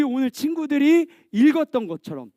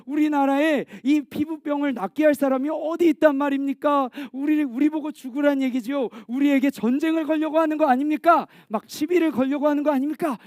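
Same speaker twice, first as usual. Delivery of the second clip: mildly outraged king, pitched up; indignant outrage; 4 semitones higher than usual. Acted. King of Israel protesting the letter, indignant. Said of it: "옷을, 옷을 찢으면서".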